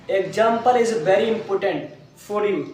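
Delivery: very slow and deliberate; slow emphatic point. Shown as a demonstration. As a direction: drive the point home slowly. Teacher stresses a point to class.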